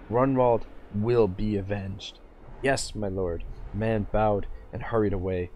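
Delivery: steady dramatic reading of a fantasy novel; story narration. A narrator's reading. Streamer reading a novel chapter to viewers, narrating. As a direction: read the chapter aloud like an audiobook.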